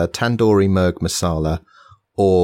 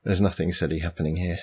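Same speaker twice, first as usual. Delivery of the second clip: being tickled; 4 dB quieter than usual. Real, not acted. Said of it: "I've got to compose myself now".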